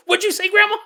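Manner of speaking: high, loud, innocent questioning; mock questioning. Great-grandson asking great-grandma what she said, high. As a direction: call out like a suspicious kid. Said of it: "every so often I'd go".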